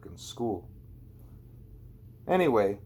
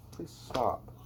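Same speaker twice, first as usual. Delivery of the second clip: softer off-mic plea; hushed aside; 8 dB quieter than usual. Real, not acted. Reader turns away from the story to quietly tell Stella to stop. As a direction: quietly ask someone nearby to stop.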